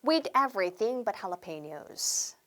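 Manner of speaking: slow, careful teacher demo of the phrase; each word spelled out slowly for learners to repeat; slow English demo; slow model phrase. Shown as a demonstration. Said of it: "한 번 더 할게요".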